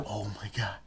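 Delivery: breathless hushed whisper; stunned whisper at the dream speech; awed whisper. Retold or imitated. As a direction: whisper it in total awe. Awed reaction to MLK.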